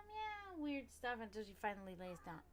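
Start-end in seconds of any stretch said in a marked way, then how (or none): 0.1-0.6 a higher mock meow; imitating cat meow. Describing her cat's nightly noise, mock meow. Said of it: "she's gonna do that meow".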